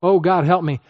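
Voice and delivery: a hint of hollow pleading; vague pleading prayer. Shown as a demonstration. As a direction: toss off a generic cry for help. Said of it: "N-, no, it's the moment".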